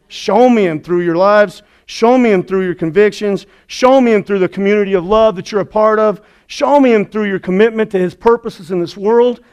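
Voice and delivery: mildly worked-up, rhythmic appeal; getting all excited. Acted. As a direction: urge it as a repeated plea. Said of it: "I'm getting all excited".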